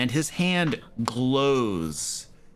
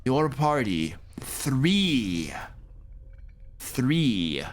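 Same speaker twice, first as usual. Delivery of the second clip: slow, grandly drawn-out priest's bargain; priest making an offer; slower than usual. Acted. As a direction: spell out the offer slowly, with weighty pauses. Game master voices the priest.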